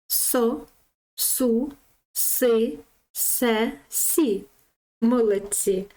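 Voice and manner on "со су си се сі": склади одразу, без називання букв; читай кожен склад цілим, окремо; злите читання складів. Shown as a demonstration. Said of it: "швидше". (злите читання по складах)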